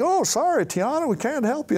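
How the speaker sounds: high, mock-apologetic cartoon villain voice; shady real estate guy. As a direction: brush her off in a high, hammed-up voice. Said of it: "and like".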